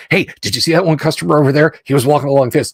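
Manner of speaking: quick Midwestern chatter; manic Midwestern accent. Retold or imitated. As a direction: rattle it off like a Midwestern coworker. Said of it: "in this manic Midwestern accent".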